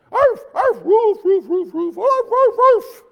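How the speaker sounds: high, loud yapping dog barks; high mock dog barks; barking like a dog. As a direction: bark like a little yappy dog. Wife barking in retold joke.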